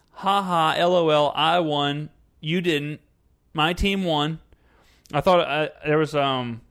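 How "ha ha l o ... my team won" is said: mock gloating. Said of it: "It's about".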